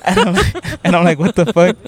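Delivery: real laughter breaking into the words; laughing. Real, not acted. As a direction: crack up while telling it. Cracking up retelling the insult.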